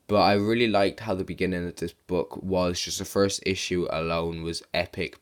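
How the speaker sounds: hoarse, sick-sounding voice; sore throat voice. Real, not acted. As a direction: speak through a sore throat. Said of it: "sorry if I sound sick".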